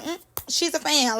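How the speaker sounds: understated, knowing put-down; imitated dismissiveness. Host mimics how she truly said it, offhand and dismissive. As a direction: drop it offhand after a little "mm". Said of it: "truly was saying it like".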